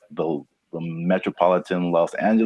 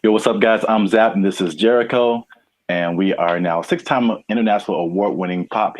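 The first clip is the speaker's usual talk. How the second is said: podcast intro. Acted. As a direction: open the show like hyping a crowd.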